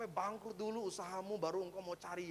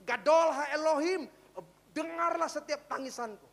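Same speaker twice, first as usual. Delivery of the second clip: crying out; 7 semitones higher, 11 dB louder than usual. Retold or imitated. (seruan memohon yang lantang dan pelan)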